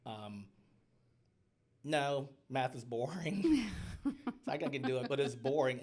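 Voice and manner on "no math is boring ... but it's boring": emphatic. Real, not acted. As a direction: lay it on, math is boring. Emphatic realization, laughing.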